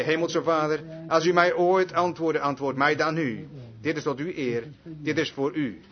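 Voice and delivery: low, measured prayer to the Father; re-enacted prayer. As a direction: quote the prayer in a subdued, earnest voice. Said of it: "Op die manier bad ik voor hem". (nagespeeld gebed, laag en ingetogen)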